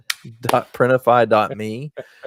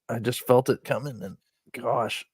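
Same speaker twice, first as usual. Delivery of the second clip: back spasm. Real, not acted. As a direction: talk through a lingering back cramp. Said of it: "I'm having a back spasm".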